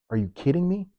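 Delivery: high incredulous question; high-pitched outraged disbelief. Real, not acted.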